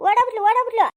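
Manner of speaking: put-on old woman crowing loudly that her rival fled; gleeful cry. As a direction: crow that she ran off. Gleeful cry she ran away.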